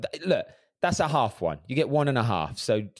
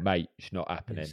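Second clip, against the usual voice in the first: softer put-on East End accent; a quiet East End refusal to a mate; East End London accent; 3 semitones lower, 5 dB quieter than usual. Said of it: "that's where he's from".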